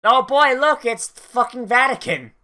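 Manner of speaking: real thrill at spotting it; excited. Real, not acted. Excited reaction to the scene.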